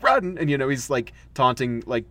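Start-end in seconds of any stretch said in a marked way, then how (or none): 0.0-0.4 playful run call. Retold or imitated. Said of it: "and then he's like".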